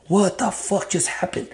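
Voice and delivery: slow, high-pitched astonishment; stunned disbelief. Retold or imitated. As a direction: relive being baffled, drawn out. Retold shock at sudden warmth.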